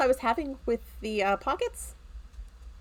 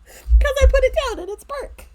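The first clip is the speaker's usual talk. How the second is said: laughing; 10 dB louder than usual. Real, not acted. Laughing while explaining.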